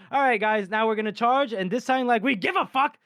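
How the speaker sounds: rally the troops, pitch climbing to the end; mock rallying call. Leader urging men to charge, mock rallying call.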